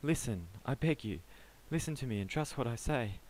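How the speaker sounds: panicked pleading. Acted. Panicked man pleads his case.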